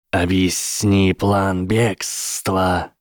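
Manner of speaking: slow, drawn-out serpent command. Acted. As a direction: give the order slowly, like a snake. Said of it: "скомандовала змея".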